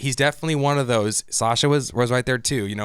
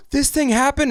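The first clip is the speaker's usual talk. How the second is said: mock shock; 13 semitones higher than usual. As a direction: gasp in fake disbelief. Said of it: "And Connie's like".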